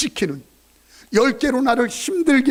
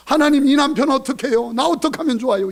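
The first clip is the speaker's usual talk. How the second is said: mock whining prayer; 5 semitones higher, 4 dB louder than usual. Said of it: "이게 아니라".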